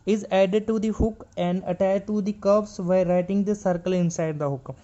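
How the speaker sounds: reading the rule slowly word by word; slow textbook reading; slow reading aloud. Shown as a demonstration. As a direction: dictate the textbook line. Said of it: "यहाँ पे लिखा है".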